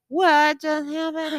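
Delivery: high, drawn-out mock alarm. Young girl seeing a customer start sobbing, mock alarmed. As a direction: imitate a startled young receptionist, slowly. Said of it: "who was more alarmed".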